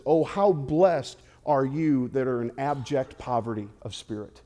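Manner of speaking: slow, solemn and serene, like a stained-glass saint; solemn painting Jesus. Retold or imitated. Jesus on the hill blesses the crowd, slow and solemn. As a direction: say the blessing gravely, no joy in it. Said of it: "the Jesus attitude we all see on the painting".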